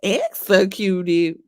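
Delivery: slow drawn-out rapper call; a rapper's voice. Acted.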